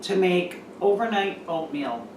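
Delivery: echoey empty kitchen; echoey room. Real, not acted. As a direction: voice ringing in a bare room. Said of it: "I'm sorry if I sound really echoey".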